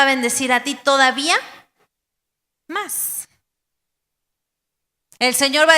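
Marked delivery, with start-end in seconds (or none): 2.7-3.3 whispered, much softer "más"; susurro. Acted. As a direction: breathe the word "más" out as a secret. Predicador remata la promesa. ("más" susurrado, mucho más suave)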